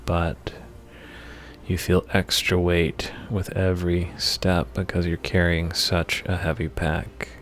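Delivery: measured meditation voice with long pauses between phrases; guided meditation. Acted. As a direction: lead the listener through the imagery phrase by phrase, unhurried. Leads a guided meditation for anger.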